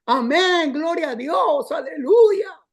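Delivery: mock church crowd, shouting aleluya; congregation shouting amen. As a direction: play a fired-up crowd answering the preacher. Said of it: "se oye que la gente dice".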